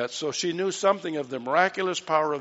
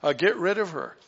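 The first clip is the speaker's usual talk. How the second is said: complaining; 4 semitones higher than usual. Acted. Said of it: "They're complaining and saying".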